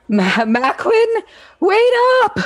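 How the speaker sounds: high, loud call after someone. Acted. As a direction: shout to stop a friend. Calling out to Macklin.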